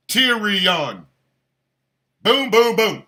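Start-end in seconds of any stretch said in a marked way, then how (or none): 2.2-3.0 loud count. Shown as a demonstration. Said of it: "One, two, three syllables".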